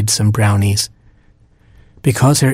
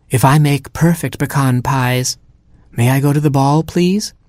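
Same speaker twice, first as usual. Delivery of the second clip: put-on pleading girl; 4 semitones higher than usual. Heroine pleading.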